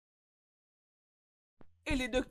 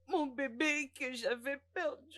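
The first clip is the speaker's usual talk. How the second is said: tearful grief. Acted. Grieving confession of lost baby.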